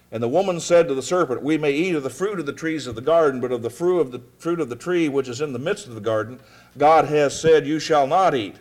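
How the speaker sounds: scripture reading. Acted. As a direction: read the verses out firmly, like a preacher. Reads scripture aloud.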